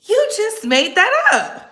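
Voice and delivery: high incredulous what, then disbelief; can't believe what they just heard. Real, not acted. Outraged at the claim.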